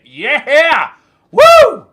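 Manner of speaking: loud yell rising to a high whoop; party whoop. Retold or imitated. Jill pounding drinks while he's gone, whooping wildly.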